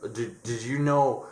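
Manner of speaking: lightly voiced doctor delivering startling news; acted doctor. Doctor calls the patient in, lightly acted halting announcement. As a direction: put on a halting doctor's voice, stumbling over words.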